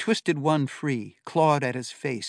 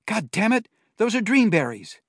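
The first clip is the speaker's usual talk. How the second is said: loud pained curse, higher; angry curse; 9 semitones higher, 8 dB louder than usual. A narrator's reading. Brother hurt, cursing loudly.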